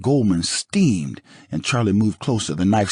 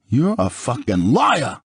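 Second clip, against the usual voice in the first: slowed, higher angry shout; 5 semitones higher, slower than usual. Acted. O J shouting at Goldman, slow angry yell. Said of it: "I shouted".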